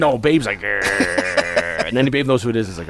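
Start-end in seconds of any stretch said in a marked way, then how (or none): 0.6-1.9 low mock growl of a dog. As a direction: voice the dog's grumble.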